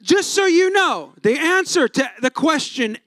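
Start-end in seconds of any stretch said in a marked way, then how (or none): 0.0-1.1 chuckling through the words; a pastor laughing while talking to the congregation. Real, not acted. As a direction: laugh as you say it.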